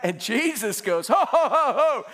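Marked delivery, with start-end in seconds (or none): 1.1-2.0 high, loud halting shout; comic alarmed rebuke at full voice; mock rebuke. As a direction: stop him short with a hammed-up holler. Jesus rebukes Peter, acted.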